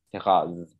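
"rose" with an open a-like vowel; southern "C'est rose" with raz for rose; southern pronunciation. Shown as a demonstration. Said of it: "dire la couleur rose".

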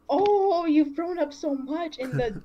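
high, drawn-out doting coo; retold gushing over a grown-up kid; gushing fondness. Gushing at kid who grew up.

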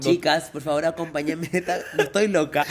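súplica teatral que sube hasta gritar; dramática exagerada. Acted. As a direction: finge desesperación, cada vez más fuerte. Pide respaldo, exagerando dramática. (súplica dramática y exagerada)

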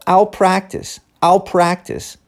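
"I'll" squeezed into one "au". Shown as a demonstration. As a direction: say "I'll" as the bark "au". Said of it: "Funciona aqui do mesmo jeito". ("I'll" como "au")

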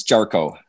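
"Jarchow" said as JAR-koh; correct name pronunciation. Shown as a demonstration. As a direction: model "Jarchow" with a hard k sound in the second syllable. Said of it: "exactly how to pronounce it".

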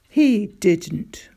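breathy, whispered shock; shocked disbelief. Acted. Father hears of the kicked dog, whispered shock. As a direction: gasp it in disbelief.

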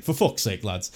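fed-up "for fuck's sake" at normal volume with a falling end; exasperated outburst. Retold or imitated. Podcaster retelling his reaction to the signings, openly exasperated. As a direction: let the frustration out plainly. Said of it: "the tipping point where it was just like".

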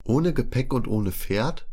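doubting her story, slowly; skeptical. A narrator's reading. Zital doubts the stranger's story, skeptical and slow. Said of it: "fragt Zital skeptisch".

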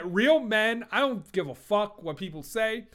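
tough rap mogul bravado; Suge Knight. Retold or imitated. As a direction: act the hard-nosed label boss. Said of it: "I might sound like Suge Knight here".

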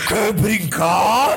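voz de criança fantasma, arrastada e mais aguda; menininha fantasma. Pretend. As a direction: arraste cada sílaba como assombração, em tom de brincadeira. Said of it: "vira pra você e fala assim". (voz de menininha assombrada)

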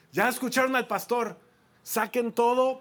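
high, loud call to the staff; shouted order. Retold or imitated. Groom orders waiters to move everything outside, shouted order. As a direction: announce it loudly, as a command.

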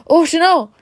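high, loud cry of dismay; horrified cry. A narrator's reading. Ron realising Hermione is in danger, horrified cry. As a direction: gasp it out in sudden horror.

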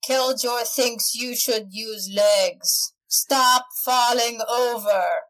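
lightly voiced brute. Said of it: "and says".

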